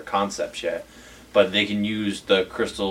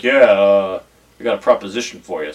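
overdone deep voice; 6 dB louder than usual. Acted. Harry radioing down with a proposition, overdone deep voice. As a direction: put on a slightly too-deep tough guy voice. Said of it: "his voice is not that deep".

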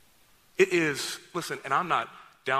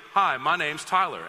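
friendly greeting demo; 4 dB louder than usual. Shown as a demonstration. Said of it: "And you say, you go".

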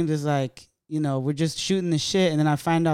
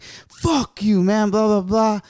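retold angry outburst; 6 semitones higher, 3 dB louder, slower than usual. Acted quarrel with friend.

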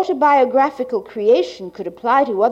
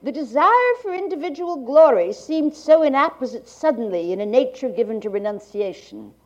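like a 1980s archival tape. Real, not acted. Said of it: "to Gallant's reading".

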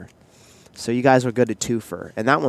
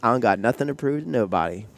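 defiant; 5 semitones higher, 5 dB louder than usual. Pretend. Mock defiant brag.

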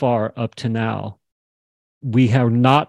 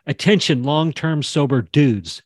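demo callout; 3 semitones higher than usual. Shown as a demonstration. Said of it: "She could say it just like that".

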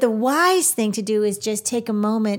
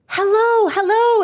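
bus driver's greeting; 10 semitones higher, 5 dB louder than usual. Retold or imitated.

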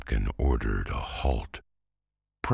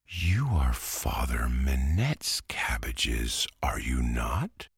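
polite question. Acted. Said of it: "he inquired politely".

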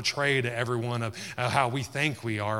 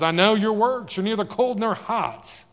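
high, loud, ringing voice of Jesus rebuking; loud voiced rebuke; 9 semitones higher, 7 dB louder than usual. Jesus rebuking the lukewarm church, loud and high. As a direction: call it out like a stern prophet.

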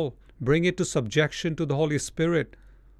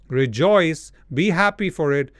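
exultant shout; 6 dB louder than usual. Acted. Preacher quoting Jesus, exhorting.

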